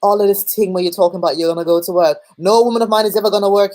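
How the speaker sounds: brash, half-hearted Cockney bloke; lightly imitated Cockney lad; slightly Cockney accent. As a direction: put on a slight Cockney, playing a controlling boyfriend. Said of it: "a slightly Cockney British accent".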